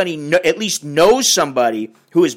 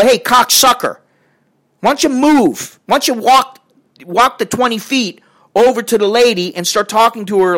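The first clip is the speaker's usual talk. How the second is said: higher-pitched mock confrontation; irritated challenge; 5 semitones higher than usual. Bystander imagines scolding a shouting man, irritated challenge.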